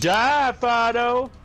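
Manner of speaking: loud, high shout; yelling at the dog. Real, not acted. Friend yelling at game dog.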